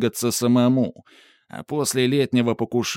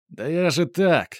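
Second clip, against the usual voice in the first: street thug; 7 semitones higher than usual. A narrator's reading. Thug backing off.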